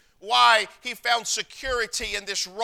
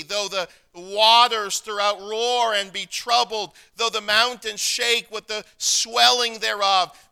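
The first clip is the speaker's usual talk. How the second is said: rising preaching; 5 dB louder than usual. Acted. Preaching the psalm.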